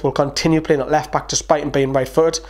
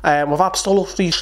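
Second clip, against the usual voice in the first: put-on Scouse accent; 4 semitones higher than usual. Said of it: "That's my shite, uh, Scouse accent".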